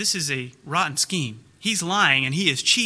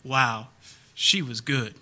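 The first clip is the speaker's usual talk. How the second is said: Michael Caine amused; 5 semitones lower, slower than usual. Retold or imitated. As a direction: murmur it like a gentleman conceding defeat. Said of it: "all he can do is just kind of laugh and go".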